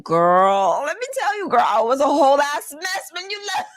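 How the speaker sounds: high, loud animated retelling to a friend; excited girl talk. Retold or imitated. Telling her friend later, high excited gushing. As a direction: gush it out to your girl. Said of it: "I was like".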